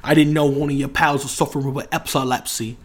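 breezy mock London slang; British accent. Imitating a British lad for friends, light London accent. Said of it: "I just put on an accent".

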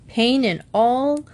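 measured, mildly grave pronouncement; solemn. Acted. Mr Jones lists made-up symptoms to Julie, solemn. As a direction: list the symptoms with mock-serious weight. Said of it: "said Mister Jones solemnly".

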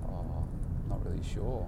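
low, quiet, lifeless mumble; flat unmotivated client. Retold or imitated. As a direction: imitate a listless guy who barely cares. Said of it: "his response was something like this".

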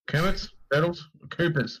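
unsure guesses rising in pitch; fumbling for the right word; confused searching. Real, not acted. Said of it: "where did I get Kermit from".

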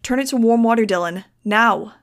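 loud, urgent command; panicked order. A narrator's reading. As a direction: call it out urgently. Panicked order during emergency.

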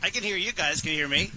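far-off, hollow phone line; echoing tunnel. Real, not acted. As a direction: sound like you're calling from a tunnel. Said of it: "you sound like you're, like, three feet tall".

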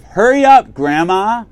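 put-on high, loud yell at the old lady; impatient shout. Stuck in the cafe line behind the old lady, an impatient shout. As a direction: bark it out, pissed off and impatient. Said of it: "And I'm getting pissed off".

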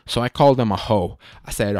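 normal talking voice

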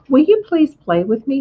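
put-on high, pleading young pig; pleading piglet. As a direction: beg the lamb to play.

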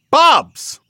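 high, loud exasperated shout; fed-up outburst; irritated yell. Acted. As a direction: yell their name to cut them off. Irritated woman shouts for attention.

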